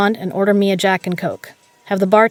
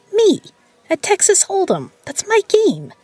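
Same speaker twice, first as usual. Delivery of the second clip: much higher, louder, outraged exclamations; indignant outburst; 12 semitones higher, 3 dB louder than usual. Acted. Peg shouting in outrage to her cousin about being cheated. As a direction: explode with wounded pride.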